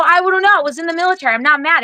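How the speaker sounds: high-pitched, insistent denial; defensive protest. Retold or imitated. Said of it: "Why do you always sound mad?".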